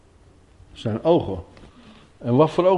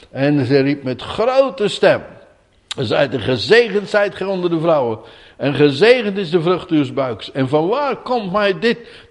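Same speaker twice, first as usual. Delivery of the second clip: solemn scripture reading, rising to higher fervour; Bible reading; 3 semitones higher than usual. Acted. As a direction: read the passage out with growing fervour. Rereads the Bible passage. (plechtige Bijbellezing)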